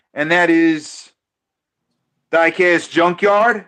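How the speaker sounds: live race commentary; play-by-play. Acted. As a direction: call the race like an announcer. Calls the dice race live.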